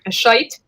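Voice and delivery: "shite" with a long i, as in "bite"; Scottish pronunciation. Shown as a demonstration. Testing which word sounds Scottish, "shite" with long i. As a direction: try out "shite" as a Scot would. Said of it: "that's more Scottish".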